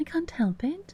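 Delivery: timid, meek, very high-pitched little voice. Reading a story, as Alice answering the complaining Dormouse, very meek. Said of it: "said Alice very meekly".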